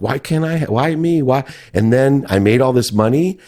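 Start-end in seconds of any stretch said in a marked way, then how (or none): 0.0-1.4 high, pleading mock whine, much higher; whiny victim. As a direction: play the self-pitying victim, higher. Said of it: "I went around like".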